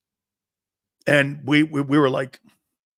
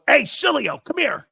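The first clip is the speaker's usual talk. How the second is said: much higher call, come here held up; 10 semitones higher, 4 dB louder than usual. Retold or imitated. Paterno calling the kid over in school, calling out. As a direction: call him over down the hall. Coach calling across hallway.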